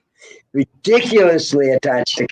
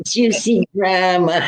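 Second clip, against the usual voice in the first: laughing; 5 semitones higher, slower than usual. Real, not acted. Savoring the word with laughs.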